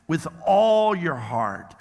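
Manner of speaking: slow, all drawn out and weighted; stress on all. Shown as a demonstration. Pastor telling listeners to write it on their hearts, slow stress on all. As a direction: dwell on all, unhurried. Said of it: "underline the word all".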